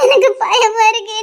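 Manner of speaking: slow tearful plea. Acted. Girl refusing to go in.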